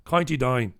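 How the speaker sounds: put-on understated County Down accent. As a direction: say it with County Down vowels, "coynty dine". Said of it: "All my accents sound the same".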